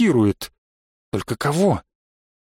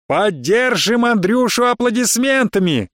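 high, slow gleeful ringmaster; mocking circus announcer; 7 semitones higher than usual. A narrator's reading. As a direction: hype the crowd with open mockery. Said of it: "обрадовался голос, даже не скрывая издёвки".

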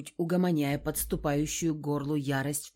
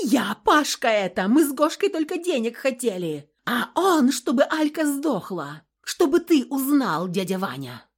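hysterical screaming; 7 semitones higher, 7 dB louder than usual. Acted. Hysterical confession with knife.

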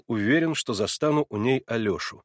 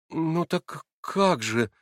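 медленно, протяжно; растерянно-наивный вопрос; наивно; 6 semitones higher, much slower than usual. A narrator's reading. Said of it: "наивно произнёс Алёша". (Алёша наивно спрашивает, медленно)

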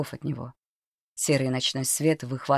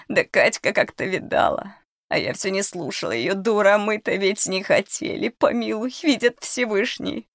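put-on much higher, quavering old woman confessing; a scared crone blurting it all out; frightened old cook; 6 semitones higher than usual. Old cook confesses to the children, frightened crone. Cook pleads and excuses herself.

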